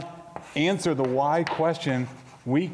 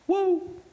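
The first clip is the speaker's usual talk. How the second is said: woo. Real, not acted. Reaction after heavy confession.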